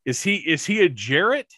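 rising, drawn-out baffled questions; slow, puzzled wondering about an accent; surprised disbelief. Retold or imitated. A fan wondering aloud where a character's drawl comes from, baffled. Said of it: "I didn't expect that twang, that drawl".

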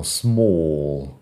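"small" with a long, rounded British OO-like vowel; slow imitation of British "small"; exaggerated British small. Shown as a demonstration. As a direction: mimic British "small" as a drawn-out SMOOL. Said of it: "En inglés británico".

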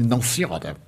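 very soft, low, meek answer; meek reply. Retold or imitated. Patient tells the spirit he fears no pain, meek mock reply. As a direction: shrink the voice right down, retold meekly.

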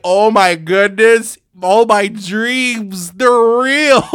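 slow, high and loud, overjoyed; giddy Miyamoto. Retold or imitated. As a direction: gush like a kid whose dreams came true. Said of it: "He was like".

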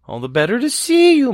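high false granny voice; sly wolf posing as grandma. A narrator's reading.

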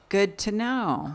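slow, dry "good to know"; dry sarcasm. Retold or imitated. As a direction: let it drip with irony. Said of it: "I was just like".

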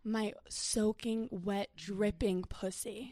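hushed, unhurried dirty talk; phone sex voice. Shown as a demonstration. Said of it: "My phone sex voice is like this".

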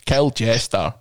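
put-on Scottish game-host voice; theatrical Scottish fantasy host; Falcon Hoof. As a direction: imitate a Scottish comic character. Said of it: "read it like Falcon Hoof".

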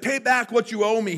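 high, loud demand in a story retelling. A narrator's reading. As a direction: demand repayment forcefully. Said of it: "he demanded".

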